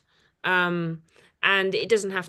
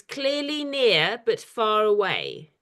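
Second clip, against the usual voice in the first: reciting a poem; slower than usual. Shown as a demonstration. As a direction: read it slowly as a line of verse. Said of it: "The second line is".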